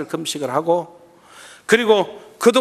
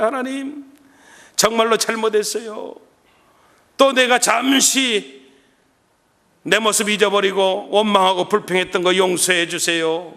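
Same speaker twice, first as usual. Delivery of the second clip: repentant prayer. Retold or imitated. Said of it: "그날 또 계속 기도해요".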